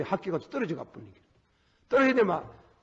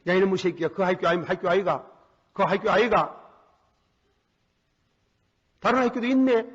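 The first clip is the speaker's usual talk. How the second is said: mild scolding; 4 dB louder than usual. Retold or imitated. Father scolding, then reassuring.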